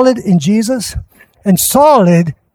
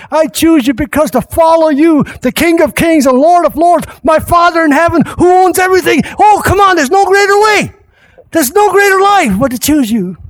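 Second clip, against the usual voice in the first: rising preaching climax; 6 semitones higher than usual. Real, not acted. Preacher to congregation, building to a shout. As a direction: climb to a full-voiced preaching peak.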